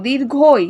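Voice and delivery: দীর্ঘই with the ending stretched; long vowel. Shown as a demonstration. Teacher showing the pronunciation itself is long, দীর্ঘই drawn out. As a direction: draw out দীর্ঘই to its end. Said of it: "উচ্চারণটাই বড়".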